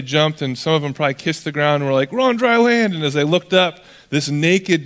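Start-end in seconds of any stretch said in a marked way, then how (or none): 2.1-2.9 high-pitched imitated cheer; relieved cheer. Disciples reaching shore after the storm, cheering in relief. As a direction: pitch jumps up in mock jubilation.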